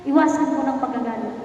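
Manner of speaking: a gentle spoken vow to the Lord; prayer. Acted. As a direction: pray it out, making a vow. Leading a prayer of commitment.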